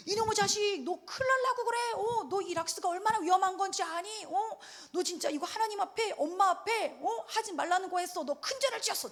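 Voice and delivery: high-pitched mock-horrified parental telling-off; scare-tactic scolding. Parent scolding a small child who sprayed bleach, mock alarm. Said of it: "제가 막 겁을 줬어요".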